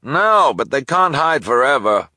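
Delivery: high, loud reply; loud call. Acted. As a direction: call back over shelves. Delivery person calls back.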